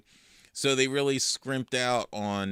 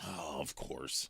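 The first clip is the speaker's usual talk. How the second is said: deadpan Talbot impression; 8 semitones lower, 13 dB quieter, slower than usual. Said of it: "And Talbot's like".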